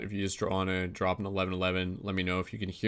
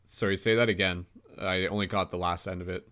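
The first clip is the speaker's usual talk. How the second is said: glitchy call audio. Real, not acted. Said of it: "you're glitching again".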